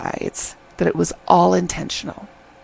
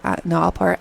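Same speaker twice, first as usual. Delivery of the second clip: understated, level-pitched male retort; guy's reply; faster than usual. Retold or imitated. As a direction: imitate a guy calmly contradicting her. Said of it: "and he's like".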